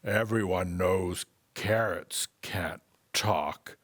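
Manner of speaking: put-on tree whispering a question to the boy.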